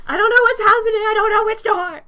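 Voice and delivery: high, very loud frantic scream; muffled-beard scream. Acted. Game master voices Aiden lost in tunnel, screaming. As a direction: scream helplessly from under a beard. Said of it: "cannot help but scream out".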